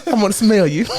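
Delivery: sing-song creepy come closer; creepy witch voice. Pretend. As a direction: lure them in with a creepy croon.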